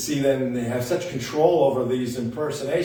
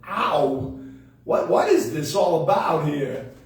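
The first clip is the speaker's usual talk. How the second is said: lightly voiced actor impression; a hint of an actor's halting delivery; Christopher Walken; slower than usual. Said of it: "I'll do walking, Chris will do walking".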